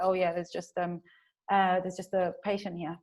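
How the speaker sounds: casual, easygoing acceptance; really calm. Acted. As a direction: shrug it off calmly. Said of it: "just be really calm about it".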